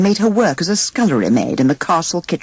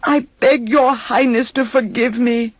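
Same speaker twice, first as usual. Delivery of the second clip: huntsman; 7 semitones higher than usual. A narrator's reading. Huntsman pleading.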